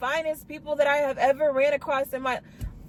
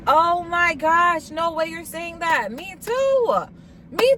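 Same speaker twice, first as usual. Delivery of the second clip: excited squeal; 4 semitones higher, slower than usual. Retold or imitated. Excited reply to his faith.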